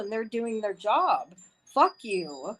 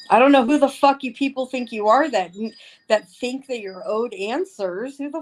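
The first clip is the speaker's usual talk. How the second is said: louder, fast furious outburst; angry rant; 3 semitones higher, 4 dB louder than usual. Real, not acted. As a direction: lash out at the people who think they're owed answers.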